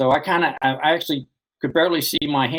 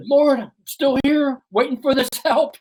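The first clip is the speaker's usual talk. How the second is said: weary prayer; 12 semitones higher, 3 dB louder than usual. Retold or imitated. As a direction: drag it out, begging the Lord for help. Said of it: "took a sip of water and said".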